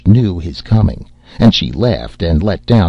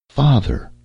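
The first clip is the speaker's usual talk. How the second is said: cried out; 7 semitones higher than usual. A narrator's reading. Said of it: "cried the young fisherman".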